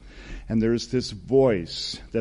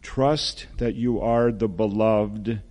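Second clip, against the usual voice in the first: unhurried, solemn words of blessing; God's loving voice. Acted. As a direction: lightly voice God blessing a beloved child. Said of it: "I'd like you to hear that voice".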